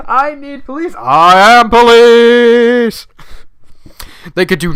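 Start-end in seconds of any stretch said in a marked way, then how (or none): 0.1-3.1 hammed-up cop voice. Voicing the wheelchair cop.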